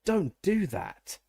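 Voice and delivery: high, slow, shaken protest; startled and shaken. A narrator's reading. Woken by elf, startled.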